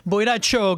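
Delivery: "Choga" with a hard sh or ch opening; Medellín pronunciation. Shown as a demonstration. Actor demonstrating how Medellín people speak, "Choga" with hardened consonant. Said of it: "they say the Y like a double L".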